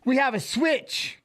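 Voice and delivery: a high, drawn-out announcement. Shown as a demonstration. Streamer trying out the opening line, high and slow. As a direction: lift it up and stretch it. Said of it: "do I say that?".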